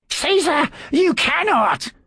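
high, alarmed, slow protest. A narrator's reading. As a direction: cry out to stop him. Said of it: "Pompedius protested".

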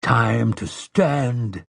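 very slow, solemn exhortation; grave, unhurried closing call; compassionate. A narrator's reading. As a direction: urge them gently, drawing out each phrase. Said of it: "his tone was not without compassion".

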